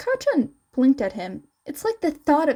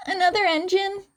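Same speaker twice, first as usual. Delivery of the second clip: calm question; 7 semitones higher, faster than usual. Acted. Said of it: "Izuku calmly asked".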